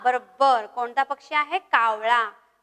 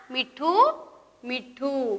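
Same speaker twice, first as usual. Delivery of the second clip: parrot call; 3 dB quieter, much slower than usual. Shown as a demonstration. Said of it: "सगळ्यांनी आवाज काढायचा आहे पोपटाचा".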